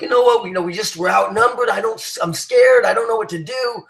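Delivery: a mild mock whine from a scared squad leader; whining leader. Scared leader to his outnumbered squad, mild mock whining. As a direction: whimper it lightly like a leader who has given up.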